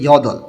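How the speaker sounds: "ইয়দল" with the ㄹ sounded at the close of the first part; pronunciation demo. Shown as a demonstration. Teacher showing students double-batchim reading, pronunciation demo of "ইয়দল". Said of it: "উচ্চারণ করতে হবে".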